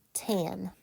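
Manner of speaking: "tan" sounded out on its own; syllable demonstration. Shown as a demonstration. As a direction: say "tan" as a separate syllable with a short a. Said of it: "let me give you the pronunciation".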